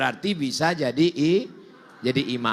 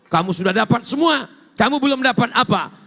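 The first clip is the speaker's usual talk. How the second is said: raised, loud challenge; emphatic questioning; 5 semitones higher, 5 dB louder than usual. Acted. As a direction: press the question with rising force. Acts Allah questioning paradise dwellers.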